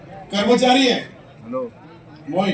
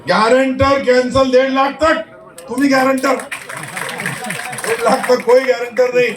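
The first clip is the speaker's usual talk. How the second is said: louder, carrying to the whole crowd; loud announcement; 4 dB louder than usual. Real, not acted. Official telling applicants the guarantor rule is cancelled, announcing loudly. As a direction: proclaim it in a raised voice.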